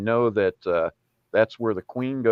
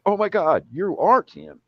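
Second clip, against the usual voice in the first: aunt's voice; 9 semitones higher than usual. Retold or imitated. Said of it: "she said".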